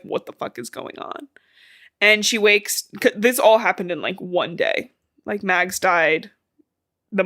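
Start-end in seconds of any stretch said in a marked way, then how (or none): 0.0-1.3 whispered. Retold or imitated. Quoted confusion, unvoiced.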